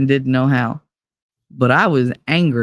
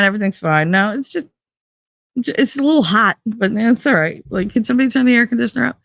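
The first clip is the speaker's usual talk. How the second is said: mock nonchalance; 4 semitones higher than usual. Acting out denial while on fire.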